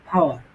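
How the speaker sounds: "পাওয়ার" with the final r almost dropped; barely sounded R. Shown as a demonstration. Teacher demonstrates thirty percent R, "পাওয়ার" with nearly silent ending. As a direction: let "পাওয়ার" end on a vowel, hint of r. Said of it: "thirty percent উচ্চারণ করবে".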